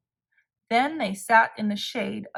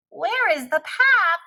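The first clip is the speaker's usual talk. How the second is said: higher, louder, lost and worried; cried; 7 semitones higher, 5 dB louder than usual. A narrator's reading. Toad blinded by ice cream, crying out worried. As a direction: call out, can't find the way. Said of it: "cried Toad".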